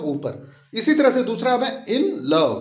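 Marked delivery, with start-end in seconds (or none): 1.9-2.6 in love with a quick "in" and a slightly drawn-out "love"; stress on LOVE. Shown as a demonstration. Teacher giving another iamb example, stress on love in "in love". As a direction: say "in" briefly, then stretch "love" a little. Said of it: "in जल्दी से पढ़ा हमने और लव को थोड़ा खींच के पढ़ा".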